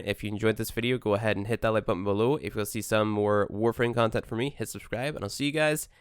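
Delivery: drowsy, just out of bed; sleepy voice. Real, not acted. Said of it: "hopefully without a sleepy voice because I just got out of bed".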